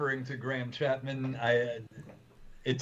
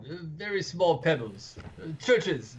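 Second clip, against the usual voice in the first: higher-pitched mock crowd calls; crowd yelling out; 4 semitones higher than usual. Retelling the crowd's answers, mildly raised mock shouts. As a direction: imitate villagers calling out guesses. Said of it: "the crowd is yelling out".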